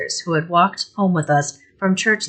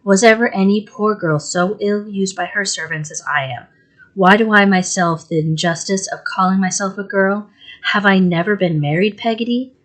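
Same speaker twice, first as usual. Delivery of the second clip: upset mother; 3 semitones higher than usual. Acted.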